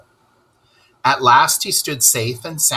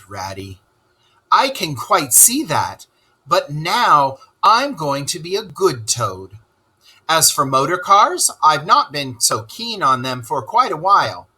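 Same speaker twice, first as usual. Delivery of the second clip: humble Toad; 4 semitones higher than usual. Acted. Toad humbly answering Rat over lunch, meek. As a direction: sound sorry, then perk up. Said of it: "said very humbly".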